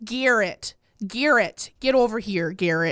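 imitated North Dakota relative calling a child; North Dakota accent. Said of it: "one of my cousins".

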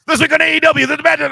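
high, loud mock panic; mocking fan freakout. Mocking AEW fans in a high, loud mock panic. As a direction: squeal it like a fan in despair. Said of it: "and then it's like".

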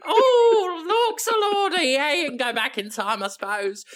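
very high, laughing queenly impression; Sarah Silverman as the Queen. Queen Victoria permitting time travel, high and laughing. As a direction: squeal it like a giggling old queen. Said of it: "Sarah Silverman goes".

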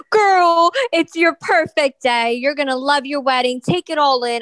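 hype-up to the bride. Retold or imitated. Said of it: "I was like".

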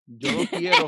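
high, loud laughing complaint; laughing mock whine. Friend quoting her own dating fatigue, high laughing whine.

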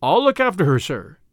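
lightly voiced, dependable Tommy; mildly earnest promise; earnest young man. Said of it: "said Tommy".

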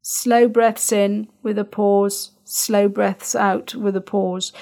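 slow, drawn-out demonstration; stretched-out words modelling slow breathing; slow and calm. Shown as a demonstration. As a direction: show the calm pace as you say it. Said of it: "we need to make sure that it is calm".

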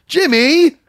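loud, high shout of Jimmy with a laugh; impression of Matt's Jimmy. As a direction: yell the name high, laughing. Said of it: "an impression lately of you doing an impression of me".

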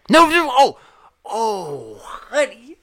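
hammed-up "oh honey" as if sobbing; mock pity. Mocking pity for the character.

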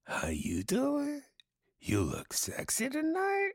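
unsexy high squeaky question. Pretend. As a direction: flip up high like asking a question. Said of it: "ending it with a question".

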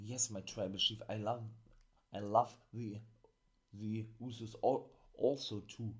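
mock-grovel to the chief like a bootlicker; sleazy suck-up. Manager fawning over his tribal chief, mild mock suck-up. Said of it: "diesen Arschkriecher".

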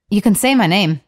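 clumsy attempt at Scottish; awful amateur Scottish lilt; terrible Scottish accent. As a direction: imitate a Scottish boyfriend, unconvincingly. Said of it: "That's the terrible. I'm doing awful".

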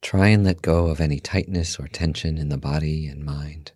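guided meditation. Acted. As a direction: guide listeners calmly into stillness, softly and unhurried.

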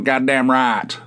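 Southern hick twang pushed through the nose; nasally Southern hick. Acted. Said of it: "a nasally type situation".

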